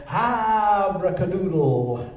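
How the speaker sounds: slow, drawn-out magic word. Acted. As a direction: announce the spell slowly. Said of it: "And then we say the magic word".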